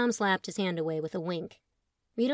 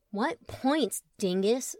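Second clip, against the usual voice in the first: put-on drunk slur; slurred; 2 semitones higher, much slower than usual. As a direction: slur it like she's tipsy. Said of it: "slurred Elizabeth".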